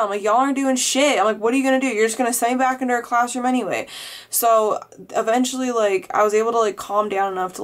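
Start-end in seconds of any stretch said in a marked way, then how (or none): 0.2-1.2 retold outburst, higher and mildly heated; retold heated yelling. Student accusing the office staff, retold heated yelling. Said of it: "and I was yelling". 1.4-3.9 mildly heated challenge, pitched higher; retold heated yelling. Student challenging the office staff, retold heated yelling. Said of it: "and I was yelling".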